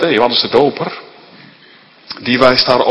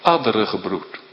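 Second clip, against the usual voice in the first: grave low voice; 4 semitones lower, 6 dB quieter than usual. Acted. Solemn low quote.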